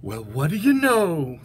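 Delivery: slow, lightly amused wonder; amused elephant. Acted. Elephant realises the sneeze is gone, slow amused voice. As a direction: draw it out with a touch of mirth. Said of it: "laughed the elephant".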